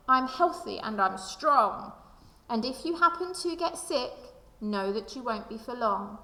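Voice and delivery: gentle, sing-song rhyming read-aloud; lilting storybook narration; reading to children. Acted. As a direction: read the rhymes like a picture book for kids. Reads rhyming book to children.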